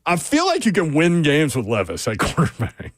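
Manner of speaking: laughing through the hot take; breaking into laughter. Real, not acted. Host giving a hot take on the quarterback, breaking into laughter. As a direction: crack up near the end of the claim. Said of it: "I can't even say it without laughing".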